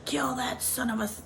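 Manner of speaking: mock whoop of support; cheering her on. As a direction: imitate a crowd egging her on without real volume. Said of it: "Everybody's, like, cheering her on".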